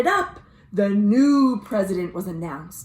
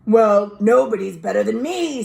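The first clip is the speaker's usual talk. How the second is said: loud, boastful lion brag; a puffed-up lion bragging; 7 dB louder than usual. Acted. Lion boasting in the debate, loud and proud. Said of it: "says Lion".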